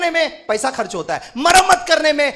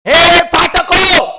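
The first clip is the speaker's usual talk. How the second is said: louder, slow, each syllable stretched; slow ringing shout; 5 semitones higher, 10 dB louder, much slower than usual. Shown as a demonstration. Preacher demonstrates the verse to the congregation, slow shout. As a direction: call out over the whole church. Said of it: "इधर देखो".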